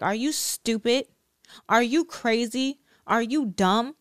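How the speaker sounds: mildly acted condemning, talking down; mock attacking. Condemner to someone who disobeyed God, mildly attacking. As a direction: imitate someone berating, questions rising at the end. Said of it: "Now they're attacking you".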